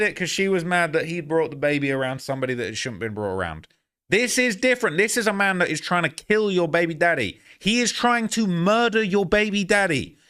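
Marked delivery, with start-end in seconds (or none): 4.1-10.2 reacting to a livestream, outraged. Real, not acted. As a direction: push back hard, slowing on murder.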